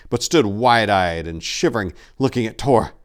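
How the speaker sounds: loud, high, urgent storytelling; tense narration. A narrator's reading. Narrator driving the attack scene, loud and urgent. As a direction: read it like the horror is breaking loose.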